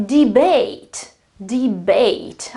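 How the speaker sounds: "debate" ending in a full "eight" sound; verb ending pronounced eight. Shown as a demonstration. Teacher models a verb for learners, clear full "eight" ending. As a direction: say "debate" slowly, final syllable rhyming with eight. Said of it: "I certainly pronounce eight".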